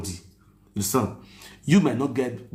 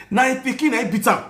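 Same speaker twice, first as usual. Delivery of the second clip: excited gossip; 11 semitones higher, 5 dB louder than usual. Retold or imitated. Quoting the live video claim.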